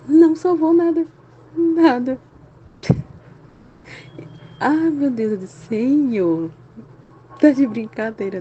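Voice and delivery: incredulous exclaim. Real, not acted. Disbelief at nothing saved.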